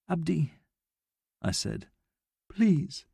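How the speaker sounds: breathless pleading; out of breath. A narrator's reading. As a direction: gasp the words out. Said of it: "I was so out of breath".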